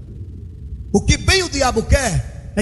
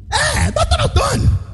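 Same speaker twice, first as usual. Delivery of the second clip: the judge's reply; 13 semitones higher, slower than usual. Retold or imitated. Judge confirming his name on the phone, high and slow. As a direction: call out the title with emphasis.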